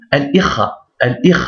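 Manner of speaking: "Al-Ikh" split after L; separated, no liaison. Shown as a demonstration. Teacher building the word, "Al-Ikh" separated. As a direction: finish "Al", then start "Ikh". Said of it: "On sépare".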